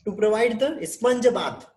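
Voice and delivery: very slow, each word separated; slow dictation. Shown as a demonstration. Teacher dictating sponge bath to the class, very slow. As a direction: give them time to write every word. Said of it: "teacher dictating care plan".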